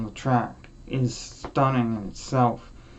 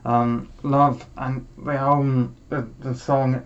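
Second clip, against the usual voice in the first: getting emotional. Real, not acted. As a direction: hold back real tears as you speak. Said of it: "sorry, I'm getting emotional".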